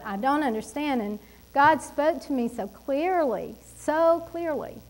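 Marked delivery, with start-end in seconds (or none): 0.0-1.0 retold complaint to God. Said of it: "is actually what I was saying".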